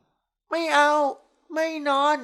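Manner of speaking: high, whiny, drawn-out refusal; a tipsy young wife refusing like a child; sulky drunk girl. A narrator's reading. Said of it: "เธอว่าด้วยน้ำเสียงไม่สบอารมณ์". (เสียงงอแงไม่สบอารมณ์)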